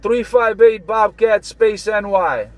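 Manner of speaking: slow, drawn-out callsign read in a lightly put-on voice; imitating Bobcat. Slow, lightly mimicked callsign read to the CB crew. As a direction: spell out the callsign slowly like a buddy would. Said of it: "you know I was imitating Bobcat".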